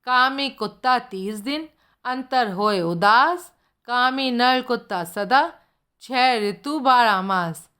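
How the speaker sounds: slow, measured doha recital; recited couplet. Retold or imitated. Detective recites the couplet slowly to his friend. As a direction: recite it slowly like a weighty verse. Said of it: "सुन, बोला".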